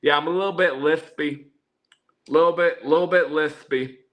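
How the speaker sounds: slight lisp from a retainer; wearing a retainer. Real, not acted. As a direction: talk with a retainer in. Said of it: "I put my retainer in".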